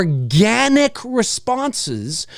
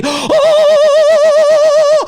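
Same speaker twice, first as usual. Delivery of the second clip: loud high awed oh; mock awe; 8 dB louder than usual. Mocking a bright phone screen in a dark theater, loud high oh. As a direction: gasp as if blinded by light. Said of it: "like God is coming out".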